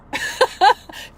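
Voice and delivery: high, loud airy laugh; self-amused laugh at her own rant; bursting laugh. Real, not acted. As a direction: laugh at yourself.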